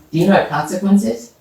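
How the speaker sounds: ordinary delivery, nothing marked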